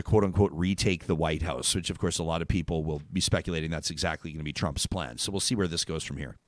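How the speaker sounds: low, soft six o'clock anchor; news anchor voice. Shown as a demonstration. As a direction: read it like a neutral evening news anchor. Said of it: "six o'clock news anchor impression".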